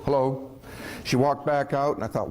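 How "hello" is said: mouth full. Acted. Replies with mouth full of paste.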